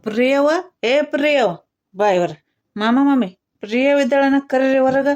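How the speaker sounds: insistent summons at the house; loud calling out. Acted. Man calls Priya out before her elders, loud calling. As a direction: call for someone to come outside. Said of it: "ಅಷ್ಟು ಜೋರ್ ಮಾತಾಡ್ದ".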